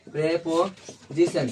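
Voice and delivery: प्रीपोजिशन stretched very slowly, syllable by syllable; slow drawn-out word. Shown as a demonstration. Teacher spelling out प्रीपोजिशन for the class, slow and drawn out. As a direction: draw out प्रीपोजिशन slowly so the class can copy it.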